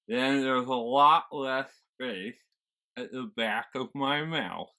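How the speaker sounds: loud, slow American with a finger on the tongue; American accent. Shown as a demonstration. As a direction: talk American with a fingertip in your mouth. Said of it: "But when I switch into American".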